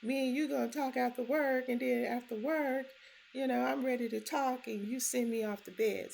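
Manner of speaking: mock-indignant granddaughter; upset child. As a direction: protest like a wronged little girl. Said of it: "So she wanna know".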